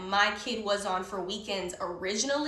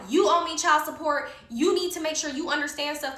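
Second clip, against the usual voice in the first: raised, higher-pitched scolding; retold yelling; 5 semitones higher, 4 dB louder than usual. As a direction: reenact telling someone off, louder. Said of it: "I'm yelling".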